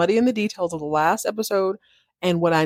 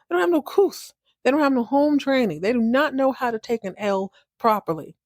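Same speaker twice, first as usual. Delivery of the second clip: indignant rant; 3 semitones higher than usual. Retold or imitated. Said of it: "She storms back into the house like".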